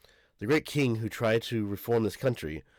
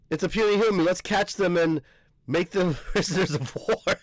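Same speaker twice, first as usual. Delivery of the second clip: put-on higher, louder, a cocky kid giant voice; giant brat taunt; 8 semitones higher, 4 dB louder than usual. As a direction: taunt the tiny humans like a bratty giant child. Giant kids taunting small humans.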